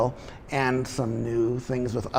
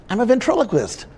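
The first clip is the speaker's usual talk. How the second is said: squeaky ventriloquist dummy; 8 semitones higher, faster than usual. Acted. Dummy Pops answering.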